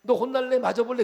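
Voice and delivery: 가볍게 과장한 충청도식 꾸중; Chungcheong-style scolding. Retold or imitated. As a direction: tease a child with a mild threat. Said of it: "그런 말 내가 들어본 적이 없어".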